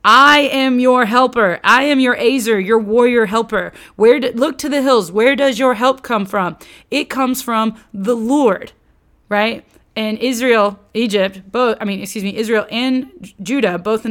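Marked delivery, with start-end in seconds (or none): 0.0-8.7 louder, proclaiming as God; God promising help. Retold or imitated. God telling his people, louder and proclaiming. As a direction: declare it like God's own promise. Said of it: "God has continuously told the people".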